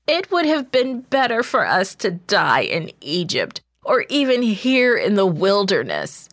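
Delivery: the crowd lamenting their fate; wailing. Acted. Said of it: "the people wailed".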